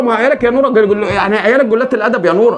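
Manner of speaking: put-on brother venting at sister about her kids; exasperated complaint.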